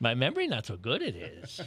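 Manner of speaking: creature character voice, swooping up and down, sing-song. Answering a request to say a line as Yoda: Yoda voice. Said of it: "how would Yoda say".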